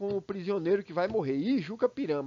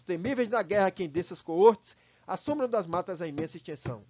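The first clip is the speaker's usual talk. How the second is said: recitação de poema. Acted. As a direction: read the verses with a steady drumlike rhythm. Reads poem aloud. (declamação rítmica de poema)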